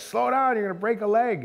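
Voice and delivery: high, loud warning to his sister; retold yell. Warning his sister crossing the driftwood, loud and high. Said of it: "And I'm like".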